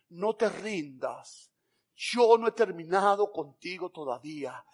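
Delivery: soft and very slow, gentle; tender reassurance. Acted. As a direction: lay it down softly, like a promise. God's words retold to listeners.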